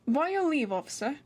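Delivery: posh British voice, rising then dropping in pitch; posh British accent. Shown as a demonstration. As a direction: attempt a posh British officer-greeting voice. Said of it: "that sounded kinda posh".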